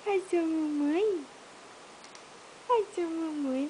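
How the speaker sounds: sweet coo for a little one. Real, not acted. Mother cooing to baby.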